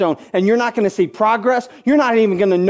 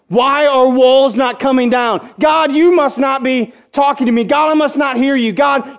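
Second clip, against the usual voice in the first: frustrated complaint; 2 semitones higher than usual. Retold or imitated. Believer accusing God during the long march, building anger. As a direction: let the frustration climb into a shout.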